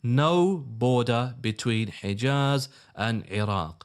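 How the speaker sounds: spelling it out slowly for slow learners; slow, deliberate repetition. Shown as a demonstration. Commentator drilling viewers on a fact, slow and deliberate. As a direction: say it slowly so listeners can join in. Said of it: "Say it with me".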